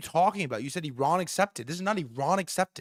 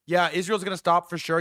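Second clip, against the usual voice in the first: sarcastic; 2 semitones higher, 4 dB louder than usual. Real, not acted. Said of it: "You wanna say that shit's sarcastic?".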